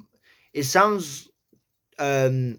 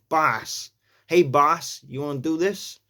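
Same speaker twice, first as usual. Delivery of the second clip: New York boss; 2 semitones higher than usual. Shown as a demonstration. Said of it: "It's more".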